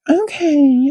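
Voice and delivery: taken aback okay. Retold or imitated. Retelling the other girl's reaction.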